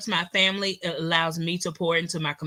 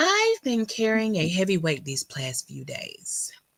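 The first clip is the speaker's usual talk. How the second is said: put-on reading voice, swooping sing-song, big pitch swings. Reading out her statement about carrying a heavy weight, in Kelliva Plan voice. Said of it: "In my Kelliva Plan voice".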